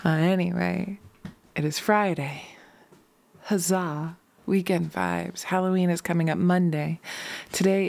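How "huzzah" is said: a tiny whispered hooray; whispered cheer. Real, not acted. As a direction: cheer under your breath.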